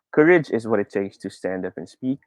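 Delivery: plain, even read-through with little volume change; flat reading. Shown as a demonstration. Teacher first reading the practice line, flat. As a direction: read it flat, without emphasis. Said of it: "basahin ko muna ng flat".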